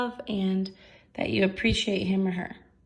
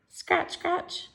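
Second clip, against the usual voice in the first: high, louder eager dog voice; dog's letter read aloud; 6 semitones higher, 5 dB louder, slower than usual. Acted. Teacher voicing Arfie's reply to Mitzi, high and eager. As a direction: read it like a happy dog wrote it.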